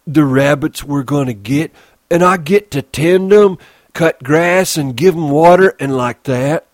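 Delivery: put-on childlike giant thrilled by the rabbits; excited Lenny. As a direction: gush about the dream.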